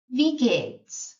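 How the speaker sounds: "Wie" said with a V sound, "vee"; German pronunciation. Shown as a demonstration. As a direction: model "Wie geht's" with a clear V. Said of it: "Look at the pronunciation here".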